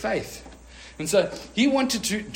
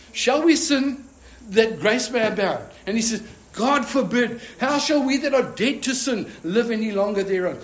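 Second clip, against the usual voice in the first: emphatic preaching; 5 semitones higher, 4 dB louder than usual. Acted. Preaching Paul's words at full force.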